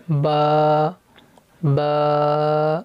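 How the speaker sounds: با with the vowel stretched; drawn-out ba. Shown as a demonstration. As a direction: draw out the aa of با. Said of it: "اس کو کھینچنا ہے". (با کو کھینچ کر)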